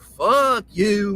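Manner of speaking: a hint of Southern country drawl on "Fuck you"; lightly drawled Southern country cuss. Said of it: "But it be in a country drawl like".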